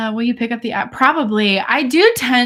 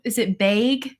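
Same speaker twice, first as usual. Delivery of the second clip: put-on Wisconsin accent. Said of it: "started saying very specific words with the accent".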